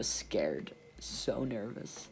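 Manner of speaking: a small scared voice, drawn out slowly; timid small answer. Retold or imitated. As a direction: shrink into the word scared. Answering the assistant's question timidly.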